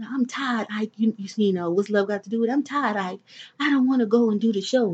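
soft, mock-weary singer's plea; a famous singer quoted. The producer quotes a singer to her, in soft mock-weary pleading. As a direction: plead tiredly like a singer to her husband. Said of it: "he hit me with the singer's line".

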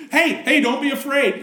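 high, soothing angel voice; angel reassuring. Retold or imitated. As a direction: angel calming terrified shepherds, high and soothing. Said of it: "he tells them".

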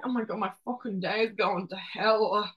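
a hint of a whiny rant, half-hearted; mock complaining. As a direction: lightly act out a moody complaint. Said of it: "I was like".

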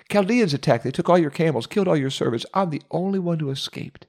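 starting very high, then fading into a frightened report; a terrified messenger spilling out the bad news; frantic messenger. The third servant tells Job of the Chaldean raid, in a panic.

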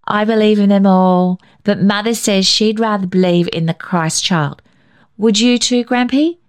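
put-on high, eager child voice; a small boy chattering to grandpa; bright questioning child; little boy Billy.

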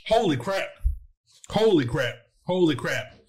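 gasping through the burn; repeating it while the heat builds; mouth on fire. Real, not acted. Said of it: "That's really kicking in now".

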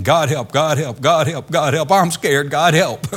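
rising mock panic, God help repeated; mock panicky prayer. Preacher imitating a panicky believer praying, mild mock fear. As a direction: babble the frightened prayer. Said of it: "keep on going along saying".

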